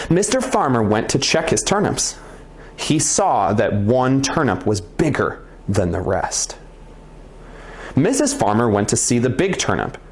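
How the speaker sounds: lively storyteller, amazed at the end; interesting narrator voice. Shown as a demonstration. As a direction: build up to the tall turnip like it's amazing. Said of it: "notice my voice got really interesting there".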